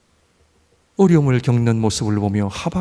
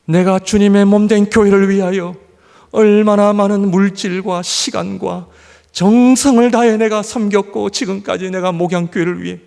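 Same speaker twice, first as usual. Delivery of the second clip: louder, higher complaining prayer; aggrieved prayer; 6 semitones higher, 5 dB louder than usual. Retold or imitated. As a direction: demand reward from God with indignation. Voices his youthful complaint prayer. (청년 시절 하나님께 서운함을 외치는 기도)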